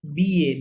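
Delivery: "বিয়ে" with the double L left silent. Shown as a demonstration. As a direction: say "বিয়ে" as bee-yeh, no L sound. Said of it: "double এল silent হবে". ("বিয়ে"-তে double এল অনুচ্চারিত)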